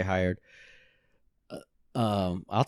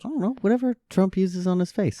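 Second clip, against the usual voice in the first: high, laughing joke; laughing shout; 11 semitones higher, faster than usual. Real, not acted. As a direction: blurt it out through laughter. Joking about Trump's face.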